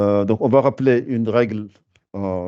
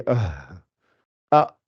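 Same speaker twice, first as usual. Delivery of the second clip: throat sound demo; 4 semitones lower than usual. Shown as a demonstration. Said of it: "le fond de la gorge".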